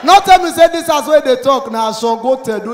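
shouting at the agent in disbelief; exasperated shout. Retold or imitated. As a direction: cry out in comic despair. Alarm escalates further.

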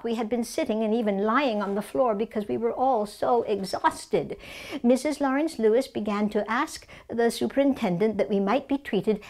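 lightly voiced elderly suffragist telling her ordeal; Mary Nolan, suffragist recounting. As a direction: recount a prison memory, lightly in character. Reads Mary Nolan's prison memoir.

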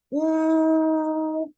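a long, even, sustained U like a train whistle; train hoot U. Shown as a demonstration. Teacher voices the toy train's U, long and steady. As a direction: hold a steady U with rounded lips. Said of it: "символ звука У".

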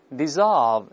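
American dissolve, slow, the o opened like a sigh; American pronunciation. Shown as a demonstration. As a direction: let the o of dissolve relax into a sigh, American style. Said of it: "这个哦变成叹气啊".

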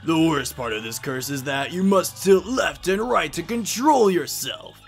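lightly voiced villain, drawn-out and mocking; hammy game villain with sudden loud emphasis; taunting curse-giver. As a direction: deliver the curse with theatrical relish. Voices the curse-giving game character.

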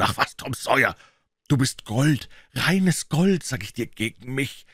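high, wailing protest; tearful. A narrator's reading. Huck sobs that Tom is better, high and tearful. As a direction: wail it as if sobbing. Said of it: "Auch Huckleberry schluchzte nun".

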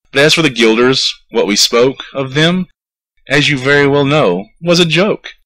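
a scheming mayor brushing off his debt; sly mayor. Acted. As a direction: talk the piper out of his fee, all mock charm. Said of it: "quoth the mayor, with a knowing wink".

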